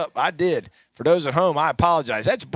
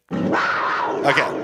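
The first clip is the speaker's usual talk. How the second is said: Panther growl; 3 semitones lower than usual. Acted. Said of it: "There's the Panther growl".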